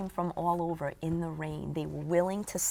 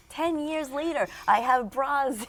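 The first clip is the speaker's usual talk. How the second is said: real laughter, higher and louder; laughing; 8 semitones higher, 5 dB louder than usual. Real, not acted. To the interviewer about her stacked bras, laughing. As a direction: laugh it out in disbelief. Laughing over the ten-year wait.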